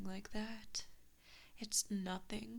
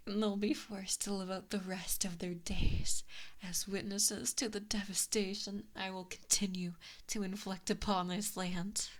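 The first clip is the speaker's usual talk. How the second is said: gloating threat; 4 dB louder than usual. Acted.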